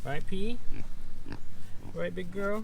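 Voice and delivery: high cooing to the goat; pet talk. Real, not acted. Asking P while brushing her, high cooing pet voice.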